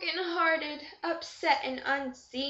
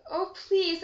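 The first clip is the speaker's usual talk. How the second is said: calling out; 4 semitones higher than usual. Acted. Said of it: "I called out".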